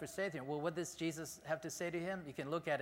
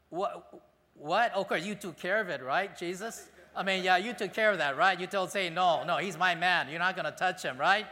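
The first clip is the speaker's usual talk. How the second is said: What? What? louder, with nervous rising right?; incredulous Peter; 2 semitones higher, 7 dB louder than usual. Retold or imitated. Peter anxiously asking Jesus for reassurance, rising and louder. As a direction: plead for reassurance, getting louder. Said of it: "imagine what Peter would have said".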